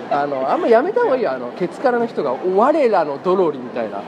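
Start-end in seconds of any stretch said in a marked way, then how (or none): 2.6-3.6 slow mock proud fan.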